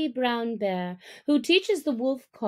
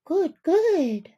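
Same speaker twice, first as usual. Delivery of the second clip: higher, louder eager cry; eager shout; 7 semitones higher, 6 dB louder than usual. Acted. Hungry young wolves shouting approval, high and loud. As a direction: call out greedily.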